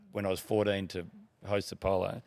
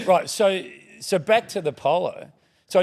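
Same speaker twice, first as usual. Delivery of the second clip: a laughing, louder and higher "Right"; 9 semitones higher, 9 dB louder than usual. Real, not acted. Guest laughing at himself for wandering off the story. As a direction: laugh it out, caught off track.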